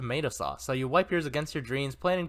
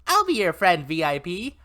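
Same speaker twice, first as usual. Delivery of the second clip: put-on high, loud eager child; chirpy kid; 4 semitones higher, 6 dB louder than usual. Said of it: "Ike chirps".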